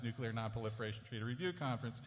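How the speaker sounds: "Nuclear Non-Proliferation Treaty Review Conference" rattled off fast, stress on "Review"; rushed tongue twister. Shown as a demonstration. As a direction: race through the long name like a tongue twister. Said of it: "which you cannot say that f-, fast five times".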